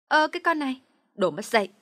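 high, loud scolding exclamation; indignant cry. A narrator's reading. Gossiping woman scolding the rude girl, indignant. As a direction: bark an insult back at the girl. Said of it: "bỗng kêu lên".

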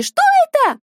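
high, loud startled cry. Acted. Girls startled by the fireworks, frightened cry. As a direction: gasp it out in alarm.

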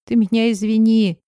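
tearful friend asking forgiveness on the phone; tearful apology. Acted. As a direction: plead for forgiveness through tears. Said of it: "начала в открытую плакать".

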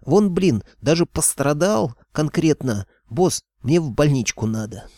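high-pitched, pleading outcry; injured thug demon begging for sympathy; wailing excuses. A narrator's reading. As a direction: whine your innocence, swooping up on key words. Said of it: "завопил бес".

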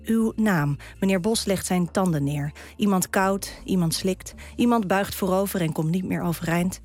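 measured, deliberate poem recital; poem reading. Acted. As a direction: Dutch poem read with care. Reads her own poem aloud.

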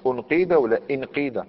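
انقيد as unqīda, then as inqīda; contrasting first vowel. Shown as a demonstration. Teacher asking which the rule gives, contrasting u then i. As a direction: set opening u against opening i in انقيد. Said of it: "القاعدة واش تقول؟".

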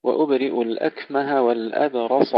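والأبرص with a thick emphatic S; weight the sad of والأبرص; heavy sad. Shown as a demonstration. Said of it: "تفخيم الصاد". (تفخيم الصاد)

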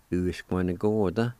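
"uskwanagorda" as one joined word; whole-word pronunciation. Shown as a demonstration. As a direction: model "uskwanagorda" without syllable breaks. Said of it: "pronounce these words one more time".

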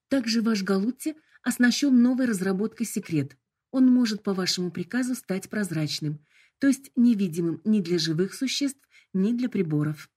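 bright, formal corporate greeting; polite hologram voice. Acted. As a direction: announce it like a cheerful assistant. Hologram presents feature.

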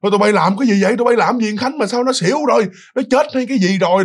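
mock alarmed scolding of the kids; retold family yelling. Family scolding the kids who carried him home, mock yell. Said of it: "ta la um sùm".

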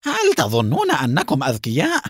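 high, threatening demand; angry shout. A narrator's reading. Haim threatening Mona for answers, shouting angrily. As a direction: rage building to a very high-pitched final question. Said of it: "وصاح بها".

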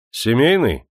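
коротко и строго, чуть громче; спросить строго, как хозяин. Acted. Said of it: "строго спросил Демидов". (Демидов строго расспрашивает о крепостном)

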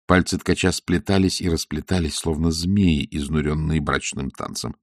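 ordinary delivery

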